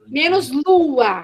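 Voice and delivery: slow, stretched LUA; drawn-out teaching delivery; syllable demonstration. Shown as a demonstration. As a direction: dictate the subtraction slowly. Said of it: "manipulação silábica".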